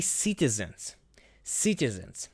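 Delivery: unvoiced whisper of "Citizens". Shown as a demonstration. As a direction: breathe the word "Citizens" as a whisper. Whispered repeat of translation.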